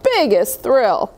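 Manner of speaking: put-on gentle read-aloud voice for children; storybook reading. A narrator's reading. Reading a snowman picture book to kids, storytelling voice. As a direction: read it like bedtime story time.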